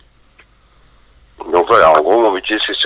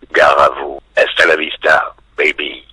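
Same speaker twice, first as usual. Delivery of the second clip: lightly voiced, lower Terminator-style warning; réplique de Terminator; 3 semitones lower than usual. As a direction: sign off like an action-hero threat. Signs off with Terminator catchphrase. (réplique menaçante à la Terminator, légèrement jouée)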